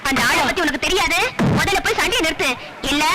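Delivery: ordinary delivery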